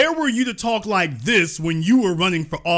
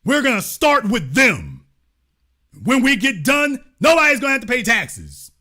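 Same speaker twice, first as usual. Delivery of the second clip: mock stump speech. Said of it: "you tell them".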